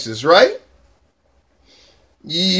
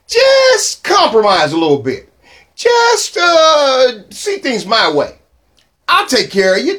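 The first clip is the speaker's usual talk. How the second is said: devil sweet-talking. Acted. Preacher voicing devil's sweet talk.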